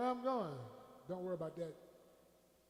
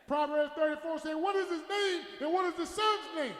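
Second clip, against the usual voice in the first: building pulpit challenge; emphatic preacher's call; full-force preaching; 6 semitones higher, 5 dB louder than usual. Real, not acted. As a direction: climb from quotation to a shouted answer.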